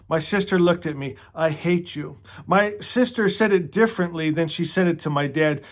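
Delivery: reading a novel passage aloud, lightly voiced; story reading. Reader shares a favorite book passage, story reading. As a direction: read the sister's hurtful words from the page.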